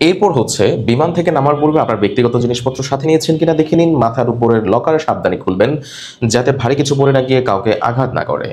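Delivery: calm, even cabin announcement; announcement read. Shown as a demonstration. Teacher demonstrating a landing announcement. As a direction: remind passengers about their luggage. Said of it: "সুন্দর করে পড়ার একটা style আছে".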